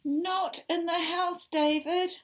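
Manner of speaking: high, loud, slow warning; scolding call. Acted. Mother reading the book, warning David. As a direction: warn him sharply.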